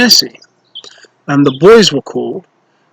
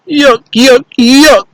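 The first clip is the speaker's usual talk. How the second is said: put-on much higher, disgusted little-girl cry; tiny girl crying out; 9 semitones higher, slower than usual. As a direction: squeal it like the smallest child. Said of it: "cried Tottie".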